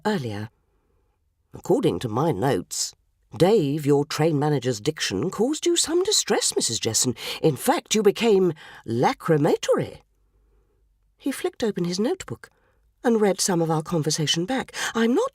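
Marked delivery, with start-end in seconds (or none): 1.5-10.0 a hint of a lower, formal Scotland Yard detective; pompous detective. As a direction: read out the charge like a stiff inspector. Detective voiced in story.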